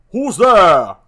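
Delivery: loud, high sentinel challenge; loud guard shouting into the dark; challenging shout. Acted.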